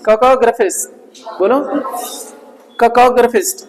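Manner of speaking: "ककॉग्राफिस्ट" with short "gra", no long aa; model pronunciation. Shown as a demonstration. Teacher modelling for students to repeat, "ककॉग्राफिस्ट" with short "gra". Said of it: "आ का मात्रा नहीं रहेगी".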